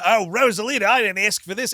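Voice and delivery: loud, playful fake innocence; coy mock protest. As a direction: act flustered but pleased. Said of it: "He's definitely doing a".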